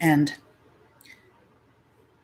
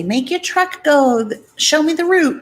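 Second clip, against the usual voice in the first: mock childish request; 13 semitones higher, 6 dB louder than usual. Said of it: "And I'd say".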